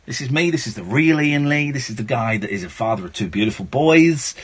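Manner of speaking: low, sincere, unperformed voice; out of character. Real, not acted. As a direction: drop the act and talk as yourself. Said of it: "let's come out of character for a second".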